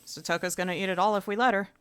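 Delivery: usual speaking voice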